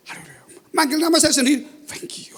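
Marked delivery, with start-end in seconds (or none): 0.1-0.4 mimed voiceless croak, barely audible; soundless, failed word; voiceless attempt. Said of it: "saya ngomong haleluya nggak bisa". 1.9-2.4 voiceless breath, no tone at all; imitating lost voice; voice not coming out. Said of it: "nggak keluar".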